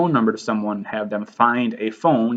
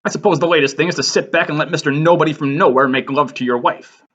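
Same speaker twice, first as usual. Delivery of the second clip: indignant rant; 2 semitones higher, faster than usual. Acted. Acted indignant rant from Gatsby.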